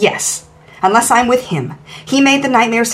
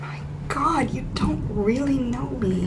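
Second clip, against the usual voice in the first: breathless hush; 3 semitones higher, 12 dB quieter, slower than usual. Acted.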